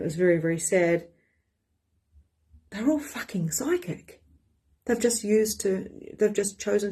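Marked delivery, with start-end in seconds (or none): 2.7-4.2 hushed aside, no voice; whisper. Real, not acted. A confiding whisper about her family. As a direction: lean in and whisper it.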